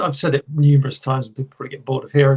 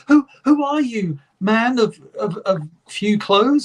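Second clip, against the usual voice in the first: mock heroic voice; 5 semitones higher than usual. Acting He-Man dialogue.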